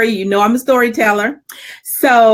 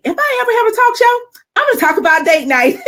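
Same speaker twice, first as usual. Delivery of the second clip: higher, fast gleeful declaration; joyful; excited punchline; 12 semitones higher, faster than usual. Real, not acted. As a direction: land the big reveal with glee.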